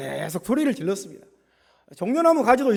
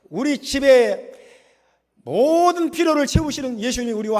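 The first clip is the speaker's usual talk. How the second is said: firm, raised proclamation; declaring. Shown as a demonstration. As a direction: declare it phrase by phrase as a model for the congregation. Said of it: "항상 선포하세요". (힘주어 선포하듯)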